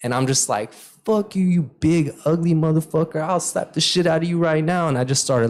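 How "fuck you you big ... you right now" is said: raised-pitch mouthing off; retold trash talk. Player cussing out whoever threw his ball, retold trash talk. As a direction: run your mouth at him, without shouting. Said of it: "running my mouth at him".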